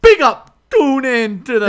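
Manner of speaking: mock Jamaican accent. Neil copies Chet's TikTok in a Jamaican accent. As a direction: shout it with a laughing Jamaican lilt. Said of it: "I'll go second".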